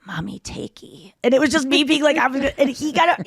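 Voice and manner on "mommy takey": put-on playful baby talk. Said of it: "to myself, I was just like".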